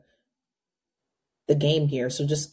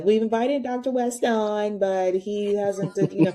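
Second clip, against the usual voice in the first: lightly mocking higher-pitched quote; higher, put-upon mock complaint; Crystal impression; 4 semitones higher than usual. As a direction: mimic a commentator still waiting on a guest. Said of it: "Crystal says".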